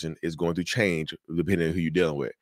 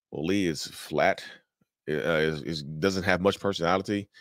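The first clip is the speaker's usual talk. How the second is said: flat, boring; 3 semitones lower, 4 dB quieter than usual. Acted. Student answering host's request to describe a rock, flat and boring. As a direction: describe it with no personality at all. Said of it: "Describe a gray rock".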